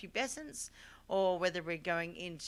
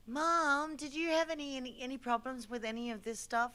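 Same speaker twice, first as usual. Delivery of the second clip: higher-pitched, re-enacted question to mom; retold daughterly questioning, pitched up; quizzing mom; 5 semitones higher than usual. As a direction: put it to your mother, voice lifted. Acted question to her mother.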